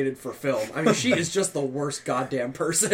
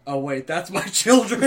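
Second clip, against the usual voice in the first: slow, louder hammed-up dismay with a laugh; mock-horrified Godzilla; 2 semitones higher, 5 dB louder than usual. Co-host voicing Godzilla finding its cooked babies, mock dismay. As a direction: play a monster's dawning horror, half laughing.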